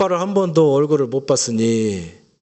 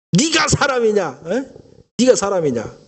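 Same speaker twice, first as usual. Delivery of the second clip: 1 angry scolding; 5 semitones higher than usual. Retold or imitated. Wife scolding the returned husband.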